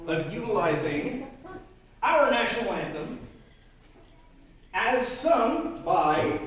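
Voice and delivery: grand showman announcement, slowing down; circus ringmaster. Acted. Ringmaster opens the flea circus.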